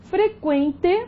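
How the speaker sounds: Frequente with qu said as kw; careful dictation of Frequente, the U audible; U pronounced. Shown as a demonstration. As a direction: sound the U in Frequente, fre-kwen-te. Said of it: "a pronúncia não foi alterada".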